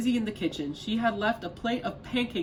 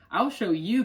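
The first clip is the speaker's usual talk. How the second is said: cried; 4 semitones higher, 5 dB louder than usual. Acted. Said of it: "cried Fred".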